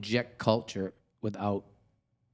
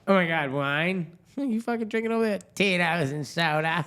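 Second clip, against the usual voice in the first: mock horror; 6 semitones higher than usual. Mocking a wine-shunning drinker, hammed-up disbelief. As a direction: act aghast at a drink order.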